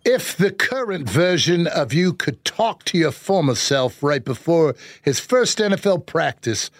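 put-on a light British accent, reading the question card. Host asks for a British accent on the question card, lightly done. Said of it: "Give me your best British voice".

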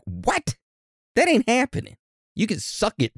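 high-pitched indignant refusal; hammed-up, squeaky disbelief; mock outrage. Acted outraged reply to venue's demand.

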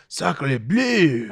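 put-on slow, hammy French accent; french chef. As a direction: drag out a bad French accent. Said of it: "Okay, that was terrible".

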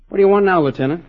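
irritated demand. Acted. Irritated son confronts lieutenant.

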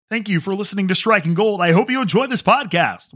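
mock announcer voice for the sign-off; silly put-on voice. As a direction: ham up the outro like a cheesy announcer. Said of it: "What if I just did the whole podcast like that voice?".

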